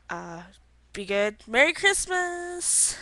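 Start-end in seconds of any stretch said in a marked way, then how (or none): 1.5-3.0 cheerful greeting. Real, not acted. Holiday sign-off greeting.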